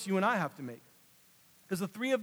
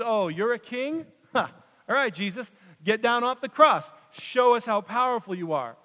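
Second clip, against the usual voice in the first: louder, higher mocking jeer; soldiers' mockery; 4 semitones higher, 5 dB louder than usual. Roman soldiers jeer at Jesus on the cross, loud mockery. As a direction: sneer up at him like a soldier. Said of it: "And then the Roman soldiers".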